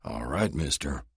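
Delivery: slow, lightly voiced big brute growl. Krieger threatens Luke before their showdown, slow growl. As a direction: menace him slowly.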